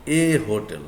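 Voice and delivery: "hotel" starting on a clear H; sounded H. Shown as a demonstration. Teacher pairing it with a, "hotel" with H sounded. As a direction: say "hotel" with its H pronounced. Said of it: "if we pronounce like hotel".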